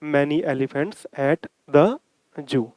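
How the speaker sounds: reading the sentence very slowly, word by word; teacher dictating the question slowly; slow read-aloud. Shown as a demonstration. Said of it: "तो".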